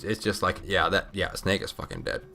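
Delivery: usual speaking voice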